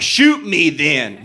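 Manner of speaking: slow, dragged-out dare; drunk defiance. Retold or imitated. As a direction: slowly taunt him to shoot you. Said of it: "I was really drunk".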